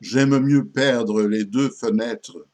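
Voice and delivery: theatrical poetry reading, emphatic attacks, falling cadences; poem recitation. Acted. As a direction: declaim the verse with strong openings and measured pauses.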